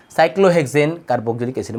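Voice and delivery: moderately slow, steady naming; measured repeat. Shown as a demonstration. Teacher repeating the compound's name to students, measured. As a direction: repeat the term at a measured pace.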